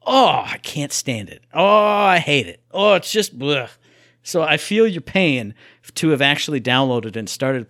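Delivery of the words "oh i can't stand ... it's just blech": slow, drawn-out groaning complaint; exasperated disgust. Retold or imitated. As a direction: drag out the loathing. Acting out disgusted reaction to game.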